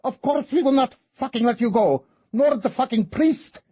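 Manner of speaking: raging rant. Acted. Fortuna threatening Kate and the priest, raging. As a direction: keep raging, spitting every curse.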